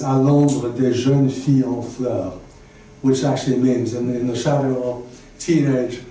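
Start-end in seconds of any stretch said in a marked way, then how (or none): 0.0-2.3 slow French reading; French title said slowly. Shown as a demonstration. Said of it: "In French, it's".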